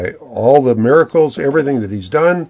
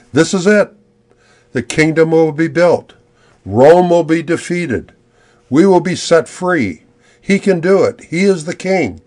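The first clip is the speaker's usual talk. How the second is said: higher-pitched, hopeful crowd declarations; ecstatic crowd; 5 semitones higher than usual. Acted. Crowd hailing Jesus as coming king, ecstatic. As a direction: voice an excited crowd, each statement raised in pitch. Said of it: "The crowd is just ecstatic".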